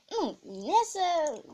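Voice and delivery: slow, laughing. Real, not acted. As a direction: giggle through it. Laughing at friend.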